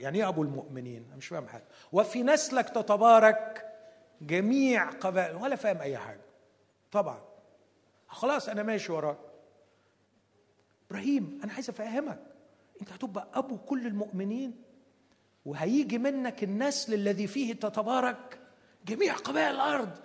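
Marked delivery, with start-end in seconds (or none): 1.9-5.4 solemn God. Acted. God's solemn promise voiced. 10.9-20.0 insistent God. Acted.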